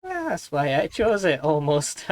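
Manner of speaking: high, slow Welsh character voice; Welsh accent. Acted. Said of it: "This is supposed to be a Welsh accent".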